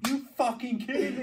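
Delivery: mock exasperation. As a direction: fake outrage at the phone. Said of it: "I'm like".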